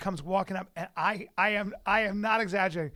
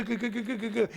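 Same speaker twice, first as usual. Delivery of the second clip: rapid-fire imitated clicks; camera shutter noises. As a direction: mimic photographers snapping away. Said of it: "they just literally go".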